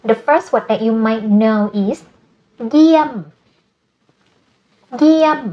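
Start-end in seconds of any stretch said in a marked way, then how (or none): 2.7-5.4 เยี่ยม with a long vowel, starting high and falling. Shown as a demonstration. Teacher models a new Thai word, long vowel and falling tone on เยี่ยม. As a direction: draw out the vowel in เยี่ยม and let the tone fall. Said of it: "it's long vowel and falling tone".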